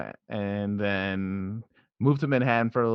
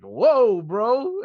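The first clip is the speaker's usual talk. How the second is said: high, loud startled yelp; 13 semitones higher, 8 dB louder than usual. Retold or imitated. Recalling white dudes using the word, high shocked whoa. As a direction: react like a word just shocked you. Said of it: "I'm like".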